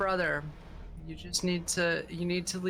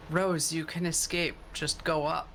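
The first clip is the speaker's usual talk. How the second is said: consoling. Acted. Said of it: "the most consoling voice I can".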